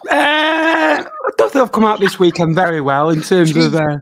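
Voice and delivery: loud laugh through the words; half-shouted words through laughter; laughing loudly. Real, not acted. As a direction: talk while cracking up with laughter. Laughing loudly while answering.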